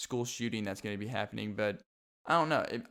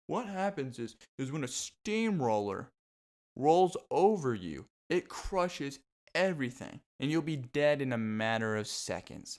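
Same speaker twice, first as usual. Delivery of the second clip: mock forensic expert; 2 semitones higher than usual. Vlogger mocking a forensic scientist on a TV show, a lightly voiced pompous expert. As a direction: play a pompous TV scientist explaining the obvious. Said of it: "you'll have the forensic scientist".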